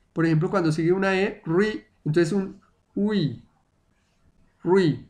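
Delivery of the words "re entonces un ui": slow re gliding into ui, like rwi; r before e. Shown as a demonstration. Teacher demonstrating r before e to students. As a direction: stretch the ui after the r. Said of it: "para decir la R".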